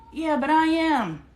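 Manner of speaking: loud, slow retort; loud comeback. Real, not acted. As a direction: punch back with a laugh. Retorts to daughter, laughing.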